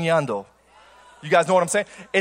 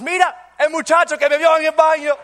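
grandmother's voice; 8 semitones higher, 6 dB louder than usual. Retold or imitated. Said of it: "she goes".

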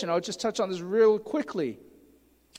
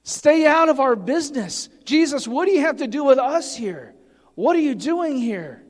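modern demon voice; 4 semitones higher, 4 dB louder than usual. Acted. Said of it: "if we want to say it in modern terms".

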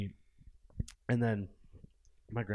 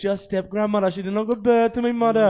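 slightly raised, insistent; emphatic retelling; 6 semitones higher, 6 dB louder than usual. Retold or imitated. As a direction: spell it out firmly. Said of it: "I said".

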